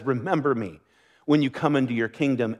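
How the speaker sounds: soft, humble plea; quiet plea. Retold or imitated. Dying thief asks Jesus to remember him, softly. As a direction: ask it gently, like a dying man's last request.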